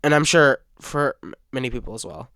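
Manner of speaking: halting, stumbling speech; stuttering. Real, not acted. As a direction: trip over the words. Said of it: "I'm stuttering a lot".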